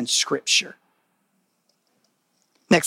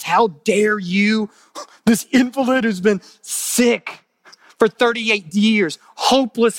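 indignant Pharisee; 3 semitones higher, slower than usual. Acted. Pharisees voiced scolding the healed man.

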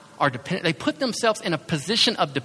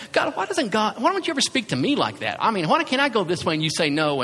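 griping at God; 4 semitones higher than usual. Retold or imitated. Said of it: "griping at God saying".

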